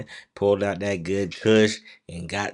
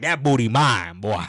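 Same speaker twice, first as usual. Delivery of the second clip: voicing Theodore; 2 semitones higher, 6 dB louder than usual. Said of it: "Theodore like".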